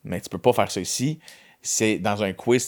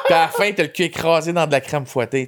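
laughing; 5 semitones higher than usual. Real, not acted. Laughing while describing the show.

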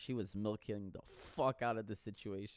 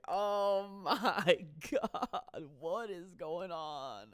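laughing panic; 6 semitones higher, much slower than usual. Retold or imitated. Imitating his panicked reaction.

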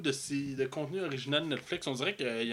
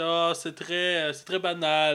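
mock French accent, drawn out; imitated French accent; 3 semitones higher, 4 dB louder, slower than usual. Mimicking a film critic to the co-host, mock French accent. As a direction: put on a little French accent. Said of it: "il y a un petit accent français".

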